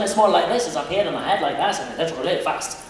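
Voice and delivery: light Highland Scottish lilt, up in the head; a touch of head-voiced Highland Scottish; Highland Scottish accent. Shown as a demonstration. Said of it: "higher parts of Scotland".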